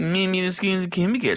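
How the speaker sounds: high, put-on voice parroting Baxter; mocking parrot. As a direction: throw his words back in a silly voice. Mocking his co-host's words back.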